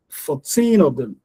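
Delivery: put-on "Fourteen" slow, with TEEN drawn out; stretched TEEN. Shown as a demonstration. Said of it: "you're gonna stretch that teen".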